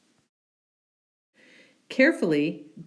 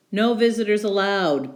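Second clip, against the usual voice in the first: a touch louder, gruff bear; 3 semitones higher, 4 dB louder than usual. Acted. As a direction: bear stating the rule. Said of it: "Bear said".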